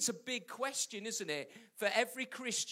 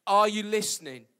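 Are you listening?: called out louder, landing on Are; louder second asking; louder repeat; 9 dB louder than usual. Shown as a demonstration. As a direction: push it out to the room.

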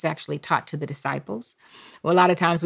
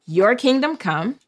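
slow call to repeat; 5 semitones higher than usual. Shown as a demonstration. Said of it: "I need for you to say".

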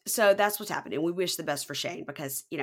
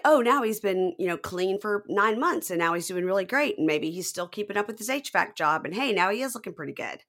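mock airhead woman; 3 semitones higher than usual. Mocking Lacey's thinking.

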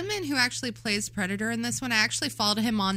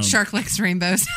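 laughing, shouted teasing; laughing tease; 3 dB louder than usual. Real, not acted. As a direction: tease him while laughing.

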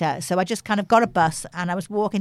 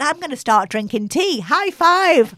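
quoting the guy; 8 semitones higher, 4 dB louder, slower than usual. Retold or imitated. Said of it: "He said".

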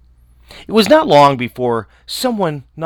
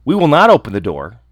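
louder, defiant refusal; kids crying out; 6 dB louder than usual. Acted. Little kids refusing the wolf, loud and defiant. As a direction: shout it back at the door. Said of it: "cried they".

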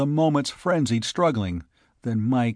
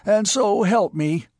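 high, loud, shrill threat; shrill outburst of rage; shrill panting; 9 semitones higher, 5 dB louder than usual. A narrator's reading. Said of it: "he panted shrilly".

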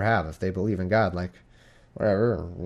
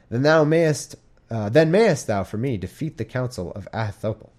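scripture reading; 2 semitones higher than usual. Acted. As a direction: read it like the pulpit. Reading King James scripture aloud.

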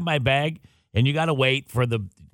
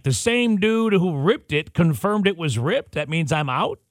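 higher, slow disbelieving question; incredulous; 4 semitones higher than usual. Retold or imitated. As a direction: ask it in disbelief, drawn out. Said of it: "So I'm like".

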